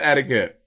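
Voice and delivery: "etiquette" mimicked with a Southern vowel; imitated Southern "etiquette"; Southern pronunciation. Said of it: "You got real Southern".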